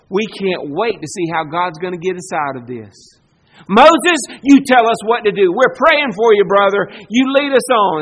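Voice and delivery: hammed-up people promising to follow Moses; mock eager faith. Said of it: "Is that what they said?".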